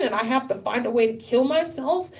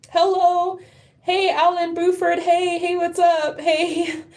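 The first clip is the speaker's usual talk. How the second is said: excited greeting; 8 semitones higher, slower than usual. Real, not acted. Greeting viewers joining live stream.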